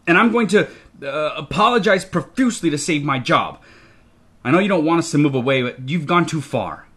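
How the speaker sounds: starts high and loud, then winds down; exasperated scolding. A narrator's reading. Father tells the child they've gone too far, exasperated. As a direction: scold in agitation, easing toward disappointment.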